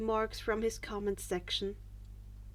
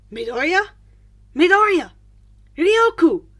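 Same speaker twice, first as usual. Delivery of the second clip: urgent hiss; 5 semitones higher, 15 dB louder than usual. A narrator's reading. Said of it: "his YouTube alias was hissed".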